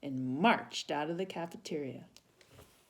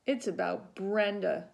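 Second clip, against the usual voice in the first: sobbing; 4 semitones higher than usual. Acted. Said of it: "hiccuping between sobs".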